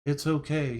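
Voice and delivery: lightly imitated soothing of a baby or pet; talking to a child. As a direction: reassure a big creature as if it were a child. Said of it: "he's talking to it like a child".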